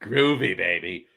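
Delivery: light mock British catchphrase; a lightly voiced swinging British accent; Austin Powers. Host imitates the movie spy, light mock British accent. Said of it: "Austin Powers".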